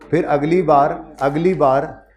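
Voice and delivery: अगली drawn out and stressed; slow, stressed अगली बार. Shown as a demonstration. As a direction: lean on अगली each time. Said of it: "अगली बार जब भी revision करो".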